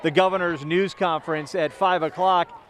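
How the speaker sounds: muffled behind a face mask; talking through a mask outdoors; through an n95 mask. Real, not acted. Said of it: "through the N ninety-five mask I'm wearing".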